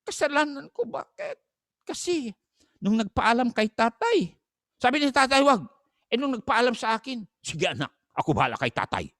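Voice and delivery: high, pleading mother's voice. Retold or imitated. Pastor imitating a mother to the congregation, high-pitched.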